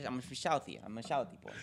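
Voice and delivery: slurred Boston accent with lisping S sounds; badly faked Boston accent, S turned to SH. Shown as a demonstration. Host showing off his Southie talk, lisped Boston accent. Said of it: "my Boston accent is".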